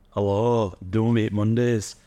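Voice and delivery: mock English accent, slow on the slogan; lightly put-on English accent; English accent impression. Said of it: "my English impressions".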